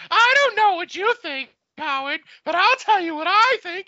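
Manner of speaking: high, loud put-on voice; radio bit voice. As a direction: boom out the radio catchphrase. Doing Stern show bit voice.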